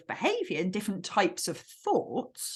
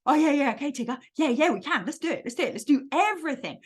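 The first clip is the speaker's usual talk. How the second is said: higher, eager going along; eager indulgence; 3 semitones higher, faster than usual. Acted. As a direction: agree to everything in an excited rush. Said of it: "We don't want to indulge him".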